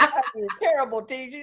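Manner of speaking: répétition ravie et plus forte; delighted repeat. Real, not acted. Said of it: "You guys, perfect".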